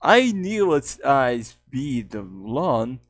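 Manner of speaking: lightly voiced slow cartoon character; Kidnap. Shown as a demonstration. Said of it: "A Kidnap is more like this".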